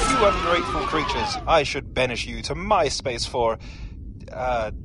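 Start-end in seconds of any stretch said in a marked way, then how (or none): 0.1-1.4 the disguise slips, pitch jumps way up; morphing voice. Acted. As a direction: voice changer glitching very high. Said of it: "the man behind the voice changer".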